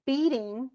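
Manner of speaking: "beating" as BEAT-ing, stressed then unstressed; "beating" with a strong first beat, weak second. Shown as a demonstration. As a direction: punch the first syllable of "beating". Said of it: "he has two trochees thrown in".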